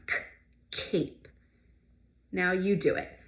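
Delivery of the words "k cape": "cape" with k from the throat; throaty K. Shown as a demonstration. Teacher modelling the throaty sound. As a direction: start "cape" at the back of the throat. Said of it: "with our throaty sound".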